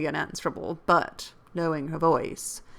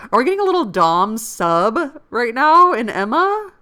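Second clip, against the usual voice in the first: laughing aside; 6 semitones higher, 9 dB louder than usual. Real, not acted. Reader's giggling aside on the text.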